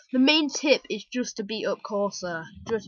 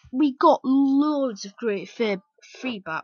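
drawn-out, slipping into exaggerated British; accidental British accent; 3 semitones higher, 6 dB louder, slower than usual. Real, not acted. Thanking viewers for feedback, accidental British accent. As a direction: let a stronger British accent slip out. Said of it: "What happened to my accent there?".

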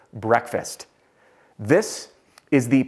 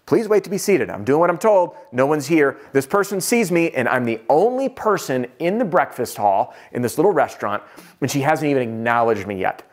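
mock indignant, I'm doing what I'm told; frustrated. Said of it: "I am frustrated at this point".

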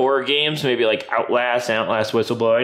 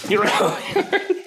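mock scolding pet voice; 6 semitones higher than usual. Mock scolding dog, laughing.

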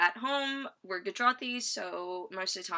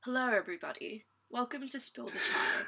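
American trying a British accent; attempted British accent; 3 semitones higher, 3 dB quieter than usual. Shown as a demonstration. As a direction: put on an unconvincing British accent. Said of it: "a British accent? ... I can try".

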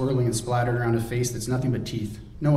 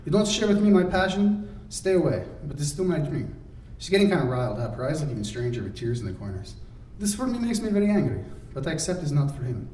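a hint of riled Radmila; 4 semitones higher than usual. Radmila riled, near tears.

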